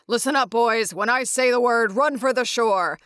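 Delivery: put-on rally the boys before a run; moderately loud mock battle command; acted commander's orders. Garp giving battle orders to crew.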